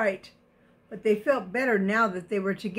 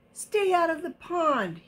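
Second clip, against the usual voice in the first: high, raised yell at rivals; 7 semitones higher than usual. Acted. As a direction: shout it bossily. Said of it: "yelled Milton".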